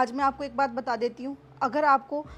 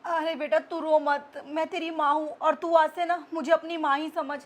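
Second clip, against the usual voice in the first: soft, gentle consoling; mother-in-law softly apologising to the crying bahu; tender apology; 4 dB quieter than usual. Acted. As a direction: soothe her softly, asking forgiveness.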